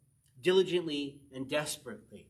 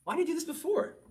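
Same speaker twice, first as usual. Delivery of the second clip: высоко и восторженно, как внезапное открытие; радостно удивиться собственной идее; excited wow; 12 semitones higher than usual. Retold or imitated. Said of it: "Man, I was like".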